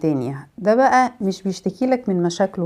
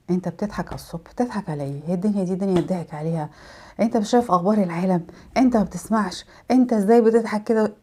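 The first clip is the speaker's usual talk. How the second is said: gloomy grumbler; 4 dB quieter than usual. Retold or imitated. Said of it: "تقابله الصبح انت بابتسامة".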